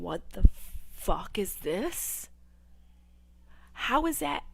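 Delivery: loud, slow, dragged-out panic; mock freak-out. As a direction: stretch the words out in shock. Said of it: "no one's going".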